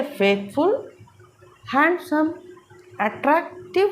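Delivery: "फेथफुल", "हैंडसम", "अट्रैक्टिव" each slightly broken into parts, with pauses after; read by syllables. Shown as a demonstration. Teacher reading for students, "फेथफुल", "हैंडसम", "अट्रैक्टिव" in syllables. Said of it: "तो आप पढ़ के देखिए".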